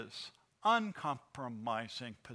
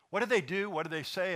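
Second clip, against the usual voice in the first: higher, louder demanding question; angry Moses; 4 semitones higher, 4 dB louder than usual. Acted. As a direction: confront Aaron as furious Moses. Moses confronts Aaron over idol.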